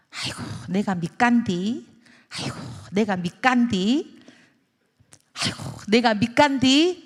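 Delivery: sighing Jeolla granny with rising endings; Jeolla dialect. Acted. Jeolla granny selling at a loss, sighing dialect lament. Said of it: "전라도 말로 뭐라 하냐면".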